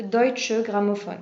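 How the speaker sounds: German name in a deliberately put-on accent. Shown as a demonstration. Presenter naming a German record label for listeners, deliberate accent. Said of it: "Désolée pour l'accent, hein, là je fais exprès".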